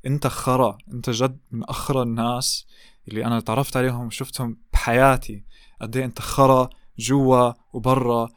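fast, heated pretend rant in Arabic; imagined rant. غاضب، كلام سريع. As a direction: tear into him, words tumbling out. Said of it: "being like, "Fuck you".

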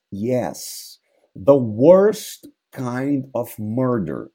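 dead father's ghost, slow and hollow. Acted. Ghost answering Hamlet.

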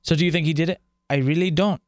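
attempted Wisconsin accent slipping toward Mexican; botched Wisconsin accent. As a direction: badly imitate Wisconsin, landing on a Spanish-sounding accent. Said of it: "that's Mexican. That, that was Spanish sounding".

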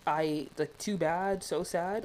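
slow, dismissive fake sorry; mock careless apology. Mocking the boyfriend's flippant apology to his girlfriend, dismissive and slow. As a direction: brush her off with a shrugging apology. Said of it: "And so he's like".

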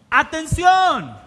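loud, high, drawn-out shout; exclamatory. Shown as a demonstration. Preacher reading the exclaimed word to rouse listeners, exclamatory. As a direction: shout it like a call to attention. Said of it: "con signos de exclamación".

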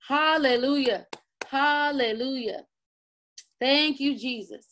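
worship prayer. Acted. Worship leader praying with his church, hushed and devoted.

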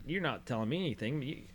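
high, indignant scolding of the coach; dressing down a coach whose players all cry; retold telling-off. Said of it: "and I was like".

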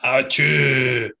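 loud sneeze; a big sneeze; sneezing. Real, not acted. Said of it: "Big manly sneeze there".

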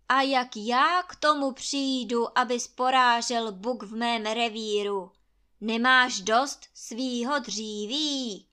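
loud, throwing the words back; Krakonoš rebuking Trautenberg loudly; stern rebuke. Acted. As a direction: turn his words back on him sternly. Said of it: "povídá Krakonoš".

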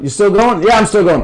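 lifted, lively call into the phone; checking in on a ranting friend; mock phone check. Friend picking up the phone to check in, lively.

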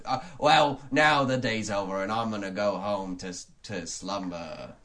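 hammy miser, slowing into sleep; Ebenezer Scrooge. Acted. Scrooge heading home at day's end, hammy. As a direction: wind down drowsily in a stage accent. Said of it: "I'll be playing the role".

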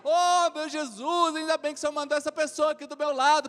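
grateful woman. Retold or imitated. Pastor imagines woman's grateful prayer.

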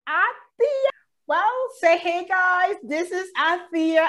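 high and loud announcer intro; big welcome intro for the nurse; host hype. Real, not acted. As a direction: hype the guest's entrance.

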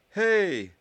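high, loud call after someone; shout. A narrator's reading. Ernie shouts after Goyle running off, high shout. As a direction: shout it out in sudden protest. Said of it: "and then shouted".

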